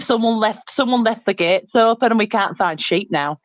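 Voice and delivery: lightly hammed-up rural English accent; mock rural English accent. Showing how UK Boston locals talk, in a rural English accent. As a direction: put on a UK Boston country accent. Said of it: "it wasn't that strong accent".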